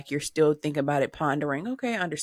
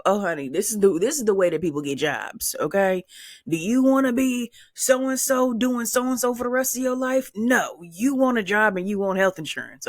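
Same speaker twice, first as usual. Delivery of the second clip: mock-patronizing "honey" voice, pitched up in places; condescending adviser; 4 semitones higher than usual. Imitating adults preaching jobs and insurance, mock-patronizing. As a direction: play the know-it-all grown-up lecturing a kid. Voicing society pushing jobs.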